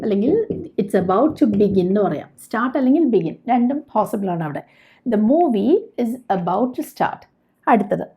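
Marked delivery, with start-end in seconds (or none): 0.8-1.9 slow model sentence. Shown as a demonstration. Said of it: "teacher models sentence". 5.1-7.2 slow model sentence. Shown as a demonstration. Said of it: "teacher models sentence".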